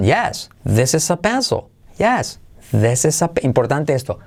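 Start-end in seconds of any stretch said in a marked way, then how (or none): 0.6-1.7 "This is a pencil" lifted a bit higher with a rise on "pencil"; rising intonation. Shown as a demonstration. Teacher practises intonation with students, rising. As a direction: lift the end of "pencil". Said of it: "Entonación".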